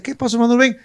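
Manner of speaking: mock indignant snap; mildly heated retelling of an angry man; angrier retort. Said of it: "todavía más bravo".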